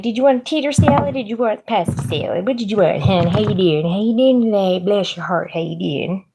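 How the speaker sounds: high, sing-song Midwestern diner lady; chirpy Midwestern hospitality accent. Retold or imitated. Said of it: "Some words I accent Midwestern".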